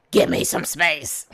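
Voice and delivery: a hint of a frustrated child pushing back; young adult's plea. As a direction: play the grown kid finally saying it. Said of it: "they don't have the words to s-, to tell you".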